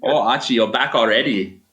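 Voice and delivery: put-on light German accent, camp lilt; effeminate German man. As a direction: play a fussy, camp German barkeep. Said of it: "he's an effeminate German man".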